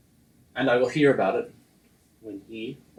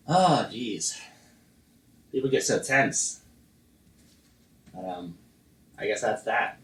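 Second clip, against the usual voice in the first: put-on Danish accent. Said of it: "You're in the Danish voice".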